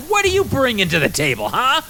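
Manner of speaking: high, pushy demand; challenging question. Acted. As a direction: put him on the spot. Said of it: "and goes".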